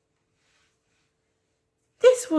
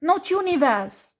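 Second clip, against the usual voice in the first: angry scolding; 5 semitones higher, 3 dB louder than usual. Real, not acted. Furious rant at a client.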